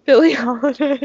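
high, loud laughing echo; teasing laugh. Real, not acted. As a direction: laugh it back at them playfully.

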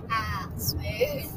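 low and soft; soft, low smooth. Acted. Glidey landing like paper, softly.

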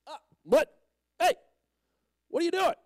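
high, startled outburst; startled protest. Acted. Blind man getting mud on his eye, startled. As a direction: yelp as if something just hit you.

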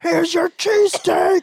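slow, high, loud delivery call; mock Batman. Joking driver as Batman delivering food, mock heroic shout. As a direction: shout it out like a hammed-up superhero.

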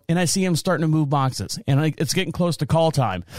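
ordinary talk

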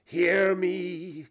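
high, loud ghostly command; urgent cry. Acted. Ghost demands Scrooge's attention, crying out. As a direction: call out urgently, pitched well up. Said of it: "cried the ghost".

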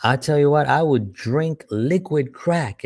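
lightly voiced friend bragging he'd drink liquid crack; joking guy. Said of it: "He goes".

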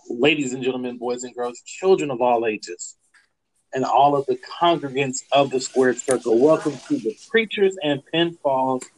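big showman welcome; ringmaster announcer. Acted. Podcast intro on request.

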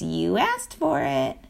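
slow, squeaky little skunk voice. Acted. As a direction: drag it out in a small squeaky voice. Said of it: "Nuts said in a squeaky little voice".

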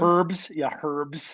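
HERBS said with a breathed H at the front. Shown as a demonstration. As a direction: sound the H in herbs, "hurbs". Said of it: "the herbs and the herbs".

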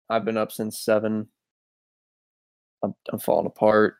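really drained after a long day; very tired. Real, not acted. Telling co-host he's been up since seven, worn out. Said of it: "You sound very tired".

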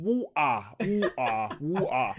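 'water' with the T dropped, wu-ah; signature 'water'. Shown as a demonstration. Showing co-host the much-copied word, 'water' without its T. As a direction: say 'water' as two open vowels, no T. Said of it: "copy me saying water".

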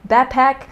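'backpack' said ba-pack; dropped k. Shown as a demonstration. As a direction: leave out the first k of 'backpack'. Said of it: "I'm saying backpack".

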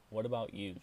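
a commanding call. Acted. Queen picking a young woman from the crowd, loud call. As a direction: point and demand.

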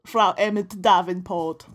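slow mock German accent. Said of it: "It's my German accent".

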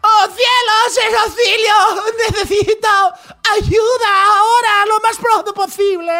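high, loud, dubbed-movie melodrama; hammy stage actor. Retold or imitated. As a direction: overact like a badly dubbed film. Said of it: "estoy viendo una película de esas que veíamos en México traducida".

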